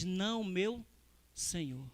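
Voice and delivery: soft, low and deferential; humble, hushed reply. Retold or imitated. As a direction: answer gently, sinking away on the last word. Ana's humble reply to Eli.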